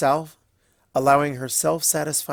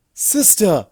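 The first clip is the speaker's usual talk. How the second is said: sharp raised protest; indignant outcry; 7 semitones higher, 8 dB louder than usual. Acted. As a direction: cry out in offended protest.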